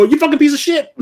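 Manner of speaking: high, yelled curse of a falling enemy; falling game character's curse. Retold or imitated. Shot enemy falling off a cliff curses the player, high yell. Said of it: "you hear him go".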